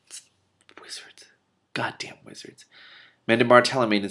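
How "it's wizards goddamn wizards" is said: soft hushed grumble; whispered aside. Real, not acted. Reader aside about the wizards, hushed grumble. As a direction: grumble it just for yourself. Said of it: "reader's aside".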